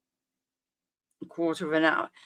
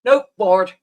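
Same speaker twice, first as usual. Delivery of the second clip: bored dismissal; 7 dB louder than usual. Retold or imitated. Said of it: "I'm just like".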